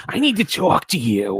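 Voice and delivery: stretched-out, high mother voice; mock concerned mother. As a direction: imitate Mom summoning you, slowly. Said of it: "And she's just like".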